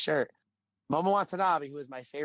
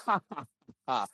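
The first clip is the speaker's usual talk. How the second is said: mock evil laugh, ha ha ha; evil villain laugh; 3 semitones higher than usual. Imitating the wrestler's teasing villain laugh at a fan. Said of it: "Like a very evil, like, villain laugh".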